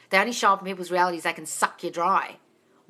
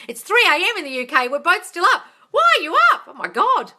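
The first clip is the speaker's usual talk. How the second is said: surprised; 9 semitones higher, 8 dB louder than usual. Real, not acted. Surprised fan is awake too.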